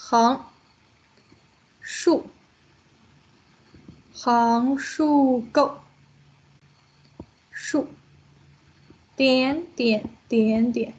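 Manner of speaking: slow, drawn-out stroke names; stroke-by-stroke naming. Shown as a demonstration. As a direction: stretch each name along with the pen stroke. Names strokes while writing the character.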